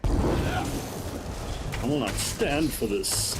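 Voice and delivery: slow, grand proclamation; dramatic voice. Pretend. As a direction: declare it like a king. Dramatic villain line.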